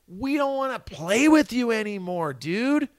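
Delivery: a hint of a blunt but fond bandmate; retold bandmate telling him he's a dick; imitating bandmate. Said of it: "our guitar player goes".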